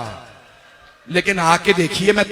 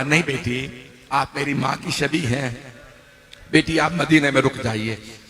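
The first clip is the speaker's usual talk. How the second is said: tender refusal; 4 semitones lower, 6 dB quieter than usual. Acted. Father gently refuses sick daughter.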